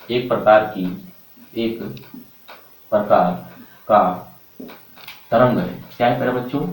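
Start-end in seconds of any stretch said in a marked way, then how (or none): 1.6-5.7 each word set apart by long pauses; slow, spaced-out dictation for note-taking. Shown as a demonstration. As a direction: dictate word by word so students can write. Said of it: "तो लिखेंगे आप voice".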